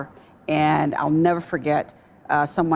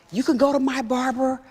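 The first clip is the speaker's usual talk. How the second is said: high, eager husband voice pitched well up; husband cheering her on from the background, high and eager; imitating husband; 8 semitones higher than usual. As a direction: play the keen husband chiming in from the background. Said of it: "He's like".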